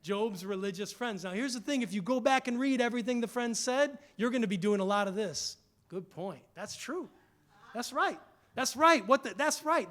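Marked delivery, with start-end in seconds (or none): 5.9-9.9 eager agreement. Retold or imitated. Mocking friends agreeing eagerly.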